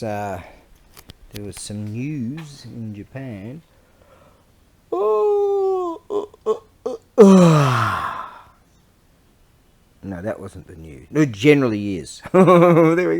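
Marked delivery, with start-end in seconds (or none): 4.9-8.2 shocked cry. Real, not acted. Sudden shock at the news.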